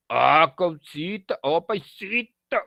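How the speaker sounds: put-on slow sing-song Piura accent. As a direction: lilt it like a Piura local. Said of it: "como en el caso piurano". (imitando el dejo piurano cantado)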